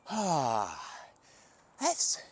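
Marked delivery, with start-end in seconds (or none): 0.1-0.8 relieved sigh. Shown as a demonstration. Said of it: "like a noodle".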